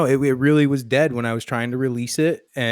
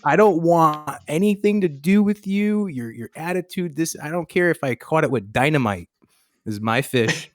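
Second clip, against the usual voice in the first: worked-up retold outburst; 5 semitones higher than usual. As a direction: lay into him, then settle a little. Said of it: "I got upset for a minute".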